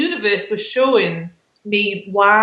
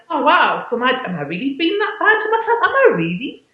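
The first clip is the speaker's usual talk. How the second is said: surprised self-questioning; 5 semitones higher than usual. Retold or imitated. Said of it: "So I was like".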